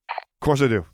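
playful, knowing; a teasing of course; lightly wry reply; with a wink. A narrator's reading. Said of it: "he said with a wink".

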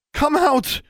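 put-on high, loud girlish yell; desperate yell. A narrator's reading. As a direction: yell it out to someone hiding. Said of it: "she yelled".

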